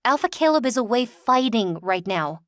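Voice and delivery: fighting hit firmly; stress on fighting. Acted. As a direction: lean hard on the word fighting. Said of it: "I emphasize fighting".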